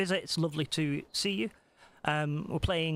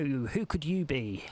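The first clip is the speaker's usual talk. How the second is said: slow who could you be; slower than usual. Acted. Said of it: "I'm not doing a Scottish accent".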